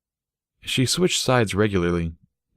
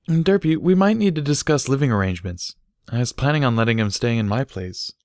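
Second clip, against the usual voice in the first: slightly higher, earnest mare voice; lightly voiced Barry; 6 semitones higher than usual. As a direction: bring up a practical matter gently. Barry raises living arrangements.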